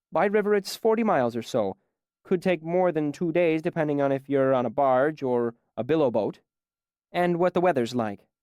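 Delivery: busy barwoman's voice, lightly done; chatty innkeeper. Acted. Innkeeper answers at the bar.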